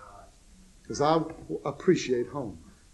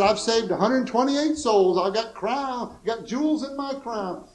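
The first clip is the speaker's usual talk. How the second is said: mock boasting; 6 semitones higher, slower than usual. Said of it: "brother said".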